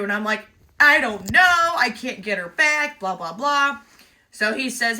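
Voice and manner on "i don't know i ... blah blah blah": high, loud, half-tearful plea; a helpless, near-crying rerun of the wail. Retold or imitated. Owner to the stranger at the truck, half-tearful wail. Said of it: "starting to cry".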